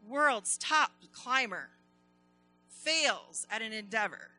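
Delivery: headline read. Acted. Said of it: "it said".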